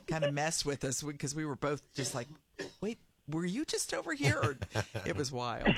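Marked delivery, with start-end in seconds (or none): 2.8-4.4 high, puzzled double take; retold surprise. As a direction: sound like you can't believe your eyes.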